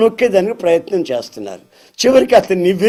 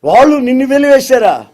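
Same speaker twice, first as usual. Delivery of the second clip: surprised question; 7 semitones higher, 5 dB louder than usual. Acted. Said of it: "ఆయన ఎవరో నాకు కళ్ళు తెరిచాడండి".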